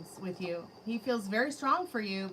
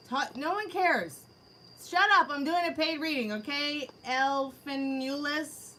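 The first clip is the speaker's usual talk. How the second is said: higher, louder, exasperated shout; mock telling-off; 5 semitones higher, 5 dB louder, slower than usual. Reader acts how she should answer the troll. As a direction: bark it at the troll by name. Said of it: "and you're like".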